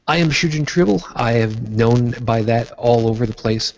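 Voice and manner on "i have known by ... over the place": ordinary talk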